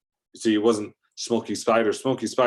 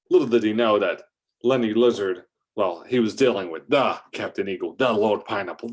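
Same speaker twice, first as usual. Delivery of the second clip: ordinary delivery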